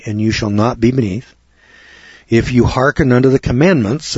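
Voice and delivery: measured, even Bible reading; calm scripture read. Acted. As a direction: read the verses steadily, like from the pulpit. Reads scripture aloud.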